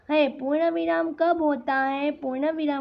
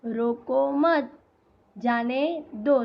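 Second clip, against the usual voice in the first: slow phrase split after "मत"; deliberate comma break after "मत"; comma pause; slower than usual. Shown as a demonstration. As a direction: say "रोको मत", pause, then "जाने दो". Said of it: "तो यहाँ बीच में क्या आएगा".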